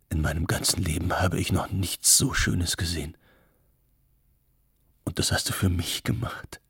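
lightly voiced man, a touch of wonder; gerührter Mann. A narrator's reading. Erzählerin spricht den gerührten Mann. (leise gerührt, leicht angedeutete Männerstimme)

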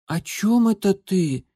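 высокий медленный голос котёнка; котёнок робко спрашивает; тихонько мяукнул. A narrator's reading. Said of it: "тихонько мяукнул он". (тихий высокий котёнок)

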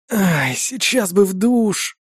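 slow, sighing out the words; tired sigh. Acted. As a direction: exhale it wearily. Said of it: "выдохнул я".

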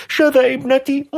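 high-pitched cry of disbelief; a frantic mother screaming it can't be true. A narrator's reading. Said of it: "فصرخت والدتها". (صرخة أم مذعورة بصوت حاد)

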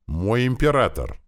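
breathless, slow urgent cry; out of breath. Acted. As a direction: gasp it out after running. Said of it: "он задыхался от быстрого бега". (запыхавшись)

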